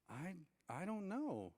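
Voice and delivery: slow, stammered, dopey innocence; clueless idiot. Retold or imitated. Answering her annoyed question, clueless idiot. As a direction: drag it out as if you have no clue. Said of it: "acting like an, like I said, an idiot".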